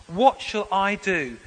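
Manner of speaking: slow, deliberate "What shall I do?" with weight on "I"; stress on I. Shown as a demonstration. Preacher reads Paul's question to the congregation, stressing "I". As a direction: lean on "I", spacing the words out slowly. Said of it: "I just want to emphasize the word".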